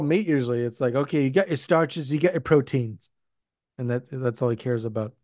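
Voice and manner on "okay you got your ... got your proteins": put-on lightly done Scottish accent; a hint of Scottish in a chef's instructions; Gordon Ramsay. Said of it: "did a Scottish accent of Ramsay".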